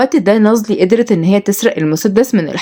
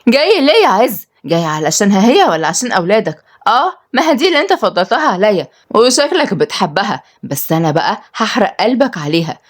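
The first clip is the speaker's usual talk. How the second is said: manic jealousy; 2 semitones higher than usual. Acted. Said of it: "بصت له بهوس وجنون".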